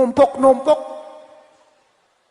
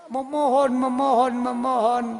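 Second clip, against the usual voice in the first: begging; 2 semitones higher than usual. Retold or imitated. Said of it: "ada kan di T V ya".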